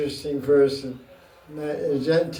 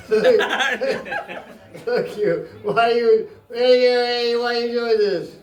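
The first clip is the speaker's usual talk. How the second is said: raised pitch, exasperated whine to God; mock plaintive complaint; 6 semitones higher, much slower than usual. Devotee pleading with Krishna, half-laughing whine. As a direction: complain to God like a wronged child.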